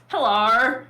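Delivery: drawn-out Australian "Hello" with a rising end; a lightly imitated Aussie greeting; Australian accent. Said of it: "the Australian one comes in and goes".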